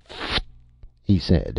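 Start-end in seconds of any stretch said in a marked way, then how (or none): 0.0-0.4 soft breathy tipsy pfft; a quiet drunk puff of air; robot's drunken pfft. Acted. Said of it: "went on rather thickly".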